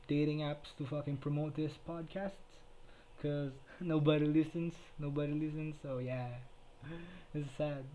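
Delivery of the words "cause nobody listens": louder, laughing through the words. Real, not acted. Joking that nobody listens to his podcast, laughing. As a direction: laugh at your own bad luck.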